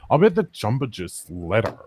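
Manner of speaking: mock Californian, drawn into a caricature; California accent. Shown as a demonstration. Defending the accent to friends, California accent. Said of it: "This is a California accent".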